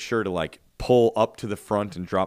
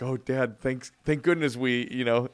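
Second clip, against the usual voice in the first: put-on teasing kids voice; 5 semitones higher than usual. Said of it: "And they were like".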